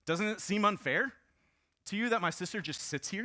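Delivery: high, loud complaining plea; mock-whine of a jealous sibling; whining sister. Preacher voicing Martha whining to Jesus. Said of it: "so she came to Jesus and said".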